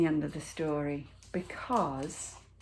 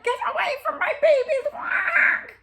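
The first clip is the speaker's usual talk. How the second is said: very high, fast shout, half laughing; mother duck screeching to guard her babies; fierce duck shout; 8 dB louder than usual. A narrator's reading. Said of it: "she wouldn't let anyone get near".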